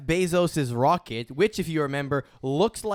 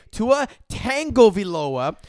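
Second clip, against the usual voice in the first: shouting capitalized words; 6 semitones higher, 5 dB louder than usual. Retold or imitated. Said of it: "it's in caps".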